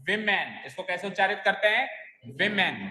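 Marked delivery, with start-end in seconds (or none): 0.1-0.7 "women" as "vimmen", short i first; plural women pronunciation. Shown as a demonstration. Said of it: "not who". 2.3-2.8 "Women" with an i in the first syllable, "vimmen"; i vowel. Shown as a demonstration. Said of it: "ई की मात्रा लगती है".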